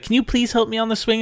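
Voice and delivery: put-on high, sweet little-girl plea. Toddler begging the dad at the park, sweetly high. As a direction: ask like a tiny girl wanting the swing. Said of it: "very sweet".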